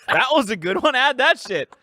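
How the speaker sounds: high, hammed-up French voice; playful put-on French accent; mock French accent. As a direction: pitch it up with fake French.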